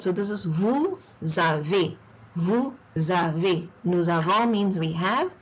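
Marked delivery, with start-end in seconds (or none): 0.4-3.7 vous avez slowly as "vou; liaison split. Shown as a demonstration. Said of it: "the S goes into the second word".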